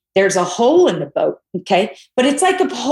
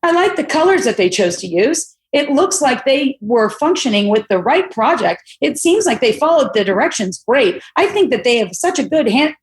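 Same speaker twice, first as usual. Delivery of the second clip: mock feedback read; 3 semitones higher than usual. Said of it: "And I go".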